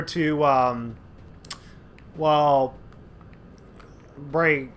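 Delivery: halting, broken-up speech; stuttering. Real, not acted. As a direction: stumble over the words. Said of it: "jeez, I'm stuttering".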